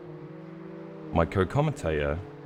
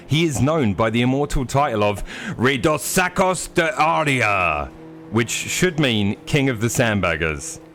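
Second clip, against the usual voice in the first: higher, grand TV presenter build-up; mock announcer intro; 3 semitones higher than usual. Introducing his friend Tiago, grand showman announcer. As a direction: roll out the titles like a show host. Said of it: "I do have a lot of fun with the intro".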